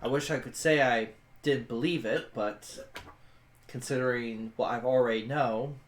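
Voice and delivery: a hint of weary regret; regretful soldier character. Player voices her character.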